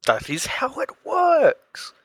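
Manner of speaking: high, slow, drawn-out echo; mock proclamation. Host echoing friend's piercing explanation, mock proclamation. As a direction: echo it with silly grandeur.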